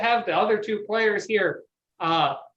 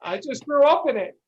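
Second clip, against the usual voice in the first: peasant voice; 5 semitones higher than usual. Acted. DM answers as peasant.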